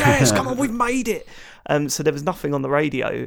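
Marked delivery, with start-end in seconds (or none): 0.0-1.3 much higher, louder celebrating; excited cheer. Retold or imitated. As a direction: cheer like your team just scored. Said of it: "we went nuts".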